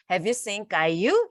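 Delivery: "Have you seen 까유" said very slowly, each word clear; slow teacher demo with a rising ending; slow model sentence. Shown as a demonstration. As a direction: spell it out for learners. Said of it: "이렇게 물어보면 됩니다".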